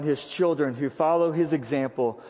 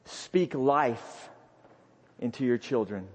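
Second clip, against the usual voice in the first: soft and low; 7 semitones lower, 6 dB quieter than usual. Real, not acted. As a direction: speak life spoken low and soft. Quiet first take of hint.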